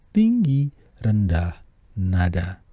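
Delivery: Tinggi very high, rendah back down low; high then low. Shown as a demonstration. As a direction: leap up on Tinggi, drop on rendah.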